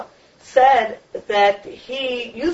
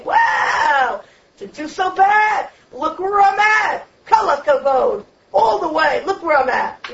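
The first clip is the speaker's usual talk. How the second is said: smug self-praise; 4 semitones higher than usual. Retold or imitated. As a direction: play the self-satisfied man patting himself on the back. Smug man admiring his young photo.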